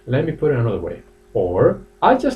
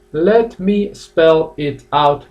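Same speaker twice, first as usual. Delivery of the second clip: slow careful demo; 4 semitones higher, much slower than usual. Shown as a demonstration. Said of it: "Normally they say fast".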